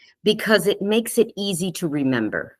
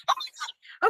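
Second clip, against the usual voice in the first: breathless stunned whisper; a gasped aside of amazement; awed whisper; 8 dB quieter than usual. Real, not acted. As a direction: whisper it in disbelief. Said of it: "I was, like, so shocked".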